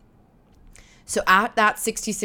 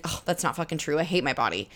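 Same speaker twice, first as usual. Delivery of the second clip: low, softer dismissive scoff; scoffing inner voice; 3 semitones lower, 5 dB quieter, faster than usual. Pretend. Inner voice rejecting the affirmation, low scoffing mutter. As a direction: scoff at the mirror under your breath.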